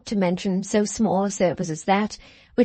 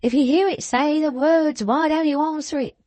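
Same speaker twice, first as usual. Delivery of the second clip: snappish; 7 semitones higher than usual. A narrator's reading. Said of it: "retorted Venus snappishly".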